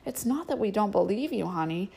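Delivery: soft, soothing mother; tender. Acted. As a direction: comfort him gently. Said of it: "Mary stroked his hand".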